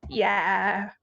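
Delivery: quick hushed whisper. Real, not acted. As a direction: breathe the word out. Whispered reply in spooky scene.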